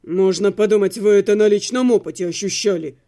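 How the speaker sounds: low, grumpy male voice; grumbling. A narrator's reading. Otto retorting to the executioner, low grumble. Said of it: "буркнул Отто".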